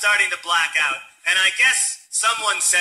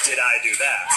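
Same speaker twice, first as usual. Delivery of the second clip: lower, Urkel catchphrase; Steve Urkel impression; 6 semitones lower than usual. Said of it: "Steve Urkel".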